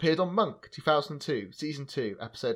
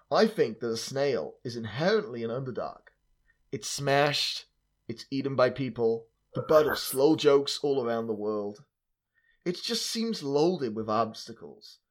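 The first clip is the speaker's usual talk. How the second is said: put-on terrible American accent. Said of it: "I'm gonna do a terrible American accent for it".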